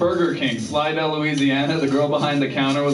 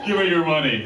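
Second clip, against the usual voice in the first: put-on Minnesota accent. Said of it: "I can't picture anyone in Saint Cloud".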